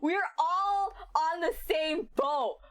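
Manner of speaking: laughing. Real, not acted. Streamer agreeing with chat, slow and laughing. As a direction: get it out while still crying with laughter.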